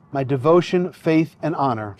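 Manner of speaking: officiant feeding vows phrase by phrase; short phrases with pauses. Shown as a demonstration. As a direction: say each phrase, then pause for the repeat. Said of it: "repeat phrase by phrase after me".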